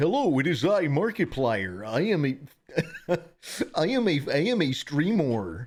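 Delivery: high, loud announcer voice.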